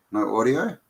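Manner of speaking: rising, incredulous no audio; checking in disbelief; no audio asked with a rise; surprised question. Real, not acted. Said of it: "Oh, really?".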